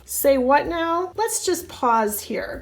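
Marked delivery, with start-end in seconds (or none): 0.1-1.1 mock shock. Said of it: "Here's how I wanted to react".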